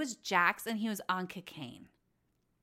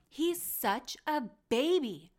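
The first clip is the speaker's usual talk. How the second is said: a hint of whiny baby voice; mocking baby talk; 5 semitones higher, 4 dB louder than usual. Podcaster mocks Tom Schwartz's babyish act, lightly whiny. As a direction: tease him with a babyish whine.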